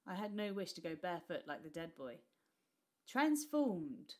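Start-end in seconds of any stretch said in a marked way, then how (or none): 3.1-4.1 high, loud triumphant shriek. Acted. Old woman admiring the disguised boy, shrieking. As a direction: shriek it in delight. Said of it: "the old woman shrieked".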